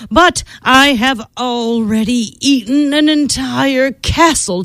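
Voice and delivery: lazy grumble of a full dragon; a hint of a lofty dragon; lightly voiced dragon.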